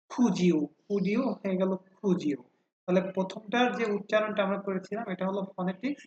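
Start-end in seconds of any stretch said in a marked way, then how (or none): 0.1-2.4 খুজিও with a J sound, against কুডিও with D; linked American pronunciation. Shown as a demonstration. Teacher explains what Americans say, D becoming J in খুজিও. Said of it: "আমেরিকানরা এইটাকে কিন্তু বলে".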